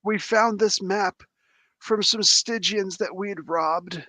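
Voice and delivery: dying captive. Acted. Game master voices questioned captive.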